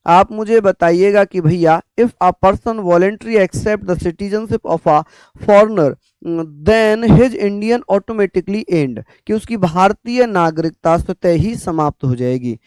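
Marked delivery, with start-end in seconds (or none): 2.0-9.0 very slow, word by word, for note taking; slow dictation. Shown as a demonstration. Teacher to students copying notes, slow dictation. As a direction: spell it out slowly so students can write.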